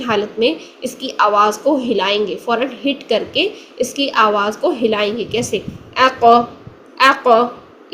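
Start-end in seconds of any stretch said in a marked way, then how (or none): 6.0-7.9 echoing bounce on the final क़; क़ stopped, then released with a bounce; qalqala on qaf. Shown as a demonstration. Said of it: "मोटा भी रखना है और कलकला भी करना है".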